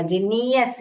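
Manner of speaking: जीनियस with the middle ई sounded out long; mispronunciation demo. Shown as a demonstration. Teacher shows the mistake to avoid, overlong middle ई in जीनियस. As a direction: stretch the NEE inside जीनियस. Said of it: "ई का sound नहीं निकलने का".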